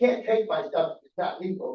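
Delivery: ordinary talk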